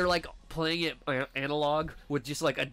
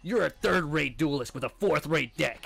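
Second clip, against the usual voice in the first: Kaiba; 4 dB louder than usual. Retold or imitated. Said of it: "his win quotes are always the same".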